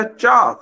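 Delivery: ਚਾਹ on a high tone that drops. Shown as a demonstration. Teacher contrasting three words, high-tone ਚਾਹ. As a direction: lift the pitch on ਚਾਹ, then let it fall. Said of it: "ਉਹ ਉੱਚੀ ਸੁਰ ਆ".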